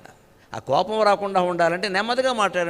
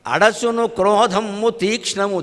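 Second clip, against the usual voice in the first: slow chanted poem line; verse recitation; slower than usual. Acted. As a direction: draw the verse out slowly like a recital. (నెమ్మదిగా పద్య పఠనం)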